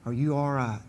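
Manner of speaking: a hint of a concerned dad; father checking on his hurt son, low and soft; worried father. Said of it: "He said".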